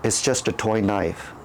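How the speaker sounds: put-on calm him down like a frightened child; soft calming voice. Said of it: "the softest and calming voice ever".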